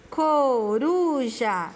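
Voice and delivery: drawn-out CORUJA, R a light tap; weak R example. Shown as a demonstration. Teacher proves the R is weak, slow Coruja with tapped R. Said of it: "o som dele é fraco".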